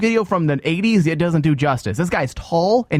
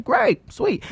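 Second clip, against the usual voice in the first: sarcastic. Retold or imitated. Sarcastic reply to usher.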